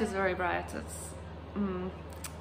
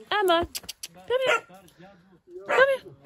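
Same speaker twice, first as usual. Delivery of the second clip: loud high call across the yard; calling the dog; 12 semitones higher, 7 dB louder than usual. Real, not acted. Owner calling her dog over from a distance, loud and high. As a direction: shout for the dog to come back.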